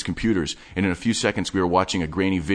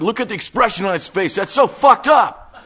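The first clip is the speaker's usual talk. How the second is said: high, loud, laughing glee; laughing delight; 7 dB louder than usual. Acted. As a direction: cackle at how twisted it is. Wade delighted by the video.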